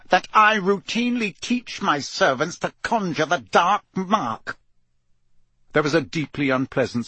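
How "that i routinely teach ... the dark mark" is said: higher, controlled indignation; cold anger. A narrator's reading. Mister Crouch resents the suggestion about his servants, cold anger. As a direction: press each syllable with restrained anger. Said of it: "cold anger in every syllable".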